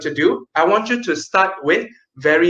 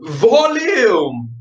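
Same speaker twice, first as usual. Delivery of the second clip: louder; 4 semitones higher than usual. Shown as a demonstration. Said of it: "The second tip is".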